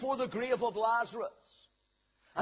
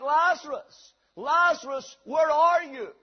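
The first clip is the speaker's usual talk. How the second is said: louder acted call into the distance; 3 semitones higher, 6 dB louder, slower than usual. Visitor searching among the tombs for Lazarus, calling out. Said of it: "you're calling out".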